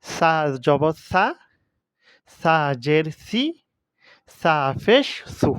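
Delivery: "সা", "সি", "সু" with a soft s at the tongue tip; teacher's careful soft "সা", "সি", "সু"; soft tongue-tip consonant. Shown as a demonstration. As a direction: spell out "সা", "সি", "সু", consonant made gently on the tip of the tongue. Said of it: "জিহ্বার মাথার মধ্যে উচ্চারণ করতে হবে নরম করে".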